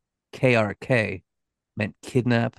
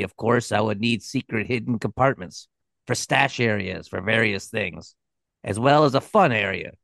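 nasal nerdy voice. Retold or imitated. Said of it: "this really nasally, nerdy voice".

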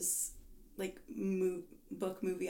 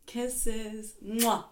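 giggly late night call; 4 semitones higher, slower than usual. Real, not acted. Playful giggly goodbye banter.

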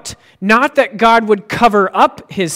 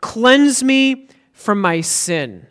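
slow pleading; 4 semitones higher, much slower than usual. Shown as a demonstration.

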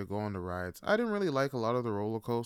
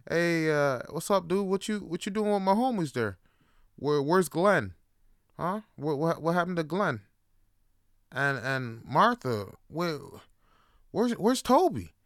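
higher, louder indignant crab; crab's voice; 8 semitones higher, 6 dB louder than usual. Retold or imitated. Crab confronting the boy about his missing friends, rising indignation. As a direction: play the crab demanding where his friends went.

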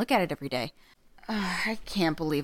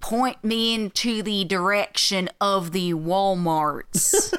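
bad American accent; slower than usual. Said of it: "American accent".

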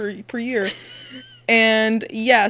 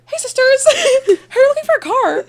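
high, loud, laughing beauty-vlogger voice; car salesman hammed up as a beauty influencer; 8 dB louder than usual. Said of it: "so I was like".

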